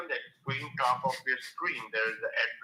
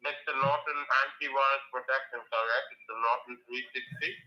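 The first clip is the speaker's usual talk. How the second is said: talking through a mouthful of food; words round a mouthful of lunch; mouth full. Real, not acted. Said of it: "It sounds as though you have a mouthful of food".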